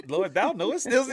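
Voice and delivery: high, loud plea through laughter; amused mock prayer. Storyteller recalling his prayer to God, laughing plea. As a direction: laugh while appealing to the Lord.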